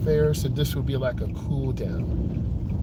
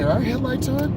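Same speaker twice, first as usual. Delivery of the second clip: high quoting voice; 10 semitones higher than usual. Retold or imitated. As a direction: voice jumps up high for the student's question. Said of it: "Some of you will say".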